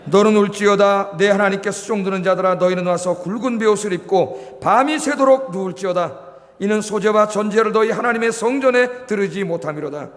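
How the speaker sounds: measured pulpit reading of the verse; scripture reading. Acted. Pastor reading Joel aloud to the congregation, solemn reading.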